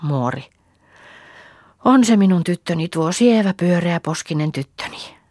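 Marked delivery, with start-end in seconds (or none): 1.8-5.2 lightly voiced granny cooing; old neighbour woman soothes the crying little girl; tender old woman. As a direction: comfort the child like a kind old granny. Old neighbour comforts crying child.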